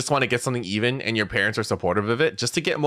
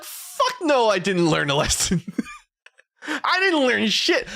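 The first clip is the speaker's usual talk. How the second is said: put-on much higher, defiant kid's retort with a laugh; 10 semitones higher, slower than usual. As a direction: fire it back like a stubborn kid. As the kid, refusing lesson.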